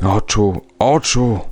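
hollow, thundering voice. At a smoky fire, a man swinging tongs keeps calling out; hollow and thundering. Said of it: "wołał ciągle Kopelius głosem zarazem głuchym i grzmiącym".

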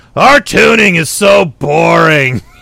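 loud, strained, rough, creaky, drawn-out bored drone. Recalling a comedy sketch's opening line, imitating the guy from a band. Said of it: "in between strained like oh my god I'm so bored".

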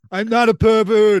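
high, loud yell. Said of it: "he's like".

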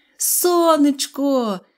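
loud, high cry, shouted out. Seeing the sun shining after the rain, he shouts. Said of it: "закричав він".

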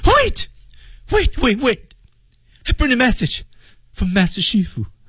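fearful begging tone. Demonstrating a line for learners with pleading and fear, pleading and afraid. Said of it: "恳求和害怕".

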